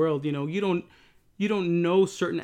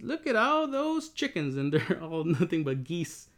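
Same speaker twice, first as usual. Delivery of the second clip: put-on little girl voice; 3 semitones higher than usual. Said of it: "that one video with the little girl that says".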